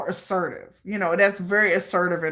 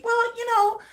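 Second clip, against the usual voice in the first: evasive dodging; 6 semitones higher than usual. Pretend. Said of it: "how do you feel about me".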